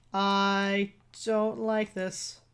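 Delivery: stretched very slow, each word dragged; drawn-out dread. Real, not acted. Player repeating it to the doctor, drawn out slowly. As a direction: drag the words out in dread. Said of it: "Nope, I don't like this".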